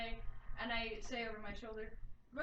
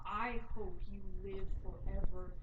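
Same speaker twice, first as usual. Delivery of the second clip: slow menacing curse; 2 semitones lower, 5 dB louder, slower than usual. Acted. Curse delivered to captive.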